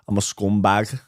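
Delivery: mild Scouse, rising at the end; Scouse accent attempt. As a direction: toss off a light Liverpool accent. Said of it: "My accents and impressions aren't good".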